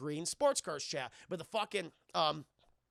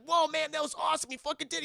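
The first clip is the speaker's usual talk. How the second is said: mock awe; 9 semitones higher, 6 dB louder, faster than usual. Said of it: "a horrible line".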